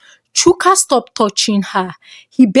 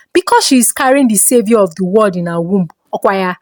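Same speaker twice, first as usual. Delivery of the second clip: hissing sneer; faster than usual. Acted. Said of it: "she hissed".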